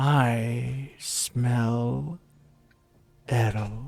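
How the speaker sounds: very low, deep, hushed growl, drawn-out "I". Game master voices the speaker in the tower, in a very deep growly voice. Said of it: "a very deep, growly voice".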